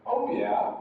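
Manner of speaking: "Oh yeah" high on OH, falling away; falling intonation. Shown as a demonstration. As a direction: start "Oh yeah" high, drop on YEAH. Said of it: "it's gonna be falling intonation".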